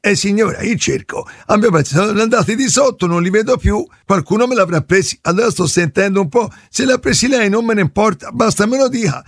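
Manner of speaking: lightly put-on yokel caller voice; prank caller voice. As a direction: play a dim neighbour on the phone.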